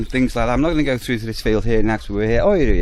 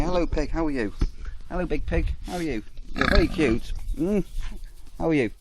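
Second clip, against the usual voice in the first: talking to pigs; 5 semitones higher than usual. Real, not acted. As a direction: coo at the pigs like pets. Cooing at the pigs.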